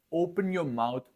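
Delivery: normal talking voice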